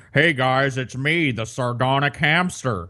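lightly mocking YouTuber greeting; a hint of a chirpy vlog host; YouTuber intro voice. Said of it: "more of these guys like".

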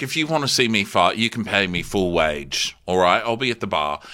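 deliberately wrong put-on accent; Amel. Amel leaving for the bar, incorrect mock accent. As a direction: lay on a badly faked accent. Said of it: "do the proper wrong accent".

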